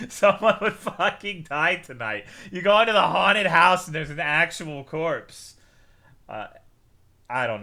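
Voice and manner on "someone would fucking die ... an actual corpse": louder and higher through laughter; laughing. Real, not acted. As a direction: say it while still cracking up.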